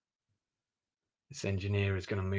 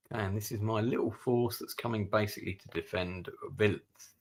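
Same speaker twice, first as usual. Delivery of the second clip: put-on vague American accent; 3 semitones higher than usual. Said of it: "I don't know what this accent is I'm doing".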